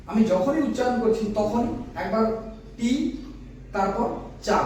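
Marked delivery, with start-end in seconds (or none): 2.8-2.9 টি held as one isolated beat; separate syllable. Shown as a demonstration. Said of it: "আমরা দুই ধাপে উচ্চারণ করলাম". 4.5-4.6 চা as one isolated beat; separate syllable. Shown as a demonstration. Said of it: "আমরা দুই ধাপে উচ্চারণ করলাম".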